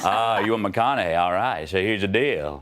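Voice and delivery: laid-back storyteller with swooping intonation; McConaughey. Shown as a demonstration. Guest spinning a bongo jam story on request, easygoing McConaughey impression. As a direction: lazily roll out the tale, lingering on key words. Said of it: "can we have McConaughey, please?".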